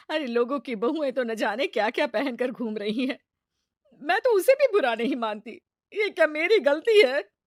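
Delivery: troubled, rising plea for reassurance; upset wife. Acted. Mother-in-law asks her husband for reassurance, upset plea. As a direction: ask if you were wrong.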